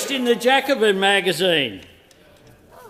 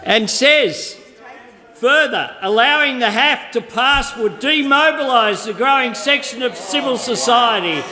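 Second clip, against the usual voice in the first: raised voice over noise; 5 semitones higher than usual. Real, not acted. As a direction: push the quote over the heckling. PM reading quote over heckling.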